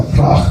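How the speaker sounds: "vraag" ending in a throaty ch; "vraag" with a scraped Dutch g; guttural Dutch ending. Shown as a demonstration. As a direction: rasp the final g of "vraag". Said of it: "gotta have a chach in there".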